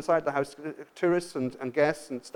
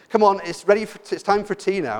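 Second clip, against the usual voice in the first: raised, calling to the next room; calling a child; 4 semitones higher, 6 dB louder than usual. Retold or imitated. Parent calling a teenager on a PlayStation, raised call. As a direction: call the kid in for tea.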